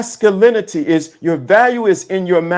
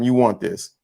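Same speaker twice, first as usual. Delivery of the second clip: ordinary delivery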